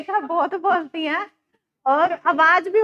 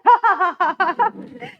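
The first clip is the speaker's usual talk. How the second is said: imitated laugh; 3 semitones higher, 5 dB louder than usual. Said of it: "ऐसे हंस दे।".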